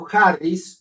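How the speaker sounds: ordinary talk, nothing marked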